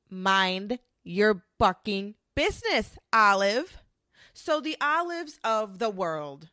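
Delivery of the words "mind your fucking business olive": angry telling-off. Acted. Telling Olive off again.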